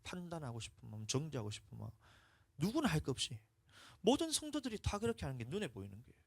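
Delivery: ordinary delivery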